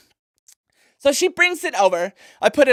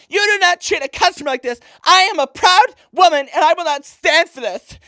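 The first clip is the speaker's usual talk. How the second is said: indignant, mildly raised voice; angry; 3 semitones higher than usual. Acted. Offended customer telling off the shop clerk, mildly angry. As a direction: take a proud, offended stand with a touch of anger. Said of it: "So I got so angry".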